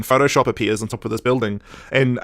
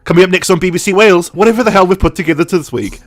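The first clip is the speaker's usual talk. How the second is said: slightly raised, mock continuity announcer; 4 semitones higher, 3 dB louder than usual. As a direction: announce the next show in jest.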